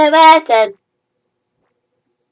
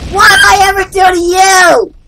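indignant yell; 3 semitones higher than usual. Pretend. Acted protest at attacker.

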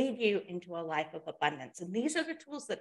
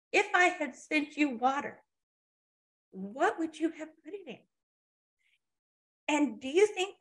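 higher-pitched, acted divine lecture; exasperated scolding; 5 semitones higher, 3 dB louder than usual. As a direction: lightly chide someone who missed the obvious. God scolds the man in story.

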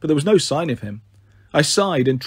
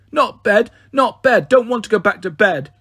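put-on higher-pitched little child's protest; protesting small child; 5 semitones higher, 4 dB louder than usual. A narrator's reading. Pixie struggles against being put back to bed, protesting child. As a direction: whine it high like a toddler refusing.

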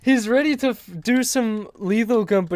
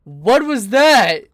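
slow, louder startled question; real bewilderment; 3 semitones higher, 5 dB louder, slower than usual. Real, not acted. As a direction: stretch the question out, loudly taken aback. Reacting to a strange noise.

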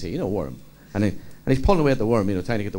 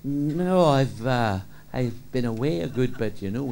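slow speech; 4 dB quieter, much slower than usual. Acted. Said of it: "Riley spoke very slow".

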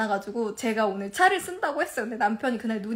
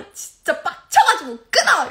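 loud, slow, higher angry sign-off; retold fury; 4 semitones higher, 8 dB louder than usual. Wife hanging up on husband, retold fury. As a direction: re-enact hanging up in a rage. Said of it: "너무 개빡치는 거예요".

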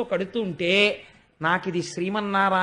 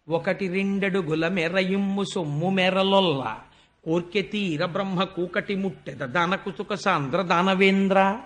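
poem recitation. Acted. Storyteller opening the Vamana episode, chanting the verse. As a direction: intone the padyam like a temple reciter.

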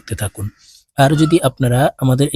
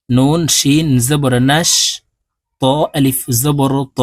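slow spelling out. Shown as a demonstration. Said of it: "বানান করে বলে দিচ্ছি".

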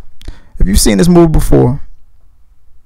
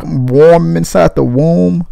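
mock newborn baby; 2 semitones higher, much slower than usual. Newborn voiced in a joke.

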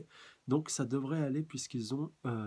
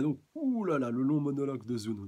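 enthousiaste; 3 semitones higher, 7 dB louder than usual. Real, not acted. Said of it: "annonce enjouée".

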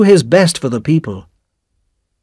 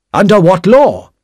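mild protest; 7 semitones higher, 5 dB louder than usual. A narrator's reading. Darnay protesting his arrest.

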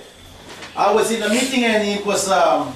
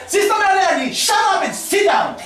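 mock stern rebuke; 7 semitones higher than usual. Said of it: "the piano player said".

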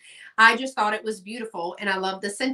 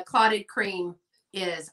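British accent; 3 semitones lower, slower than usual. Shown as a demonstration. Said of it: "in a British accent".

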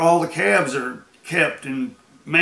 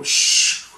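skid noise; 4 dB louder than usual. Retold or imitated. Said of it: "I go".

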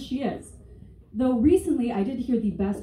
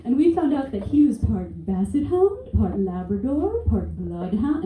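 lightly voiced snooty mom; 2 semitones higher, slower than usual. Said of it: "this crazy lady".

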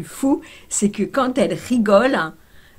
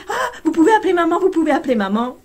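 excited begging; 10 semitones higher, 7 dB louder, faster than usual. Retold or imitated. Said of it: "elle dit".

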